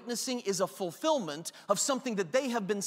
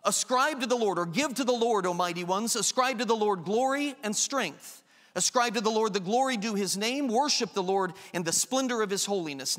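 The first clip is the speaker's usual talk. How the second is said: scripture reading. Acted. Preacher reading Psalm 29 to the congregation, solemn. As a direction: proclaim the psalm with weight.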